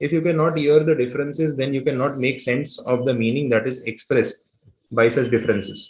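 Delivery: very slow, deliberate reading aloud; slow textbook reading. Acted. Teacher reading the textbook definition aloud to the class. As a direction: read the definition out word by word.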